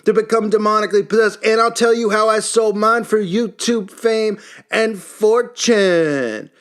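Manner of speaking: high, pumped-up bro YouTuber hype; mock a cocky influencer intro, hyped and high. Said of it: "Like this guy who's".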